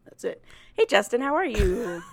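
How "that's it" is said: low, soft aside; odd low voice. Real, not acted. Host tossing off an aside after the bit, in an odd voice. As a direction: drop it low and quiet. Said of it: "in that voice also".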